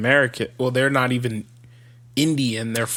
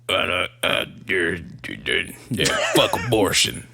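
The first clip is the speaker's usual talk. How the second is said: put-on South Dakota accent; 7 semitones lower than usual. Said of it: "making shit up now".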